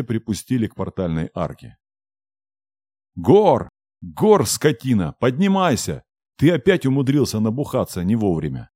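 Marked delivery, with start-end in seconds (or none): 3.1-8.7 put-on furious yell at a drunk; angry shout. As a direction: bellow him awake, angry. Yelling at drunk dragon.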